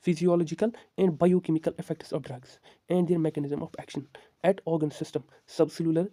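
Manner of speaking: slow dictation. Acted. Teacher dictates definition to note down.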